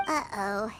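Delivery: low, soft worried uh-oh. Acted. Helper fearing Mona drinks over writing, low soft uh-oh. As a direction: drop it low in concern.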